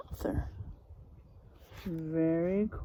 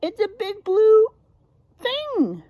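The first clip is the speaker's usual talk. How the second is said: higher, louder emphatic voice; knowing fox; 11 semitones higher, 9 dB louder than usual. Acted. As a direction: state the obvious with force. Foxes voiced in story.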